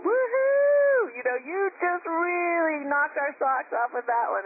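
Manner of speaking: high, loud teasing cheer from the boat; mock cheering crowd. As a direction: hoot like friends ribbing you after a fall. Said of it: "Everybody in the boat's cheering".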